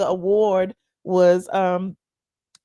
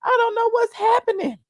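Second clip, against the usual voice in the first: mock panic shout; 13 semitones higher, 6 dB louder than usual.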